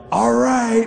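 sudden high shout of faith; yelled. Retold or imitated. Preacher at the stalled car, shouting as she turns the key. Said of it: "and I yelled".

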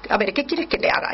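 quick, grudging "A ver, ¿qué quieres que te haga?"; impatient retort. Retold or imitated. Us answering a favor-seeker, quick and grudging. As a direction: brush him off, fast and curt. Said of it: "contestaríamos de mala manera".

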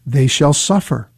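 deliberate, measured scripture reading; slow reading. Shown as a demonstration. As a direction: read it out slowly and gravely. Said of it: "gonna read it slowly one more time".

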